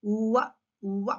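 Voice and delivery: "ఉవ్వ" gliding from oo into wa; "ఉవ్వ" as an isolated W sound. Shown as a demonstration. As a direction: round the lips forward for "ఉవ్వ". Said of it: "mouth shape changes".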